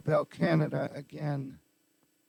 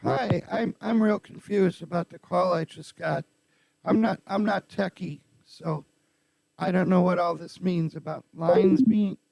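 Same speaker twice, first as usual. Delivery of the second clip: voice-changed confused woman; Patty voice; 6 dB louder than usual. Acted. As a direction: voice changer, baffled caller. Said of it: "dial as Patty".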